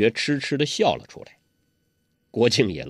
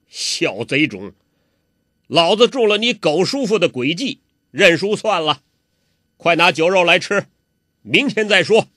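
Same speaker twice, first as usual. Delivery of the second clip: put-on louder, gruff cursing of the young villain; loud scolding; 3 semitones higher, 4 dB louder than usual. 洪七公高声骂欧阳克，假装认输. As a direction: bellow insults while hiding a plan. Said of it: "高声地骂他".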